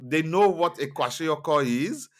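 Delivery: high, loud incredulous question; rising, amazed they know it. Retold or imitated. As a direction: disbelief that they know the word. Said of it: "I was like".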